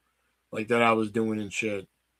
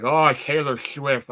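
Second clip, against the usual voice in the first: slow, drawn-out mock delivery; a light take on a friend's voice; imitating Wendell; 3 semitones higher, 4 dB louder, slower than usual. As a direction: drawl it like Wendell would. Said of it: "I like the way he said it".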